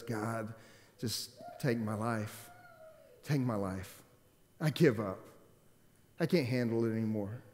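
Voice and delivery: mildly voiced hopeless sigh to God; despairing prayer. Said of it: "you see him so depressed".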